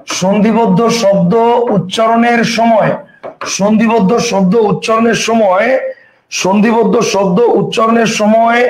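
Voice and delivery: slow, measured word-by-word reading; drawn-out words, repeated for writing down; slow dictation. Shown as a demonstration. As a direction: dictate it slowly for note-takers. Dictating rule for students to write.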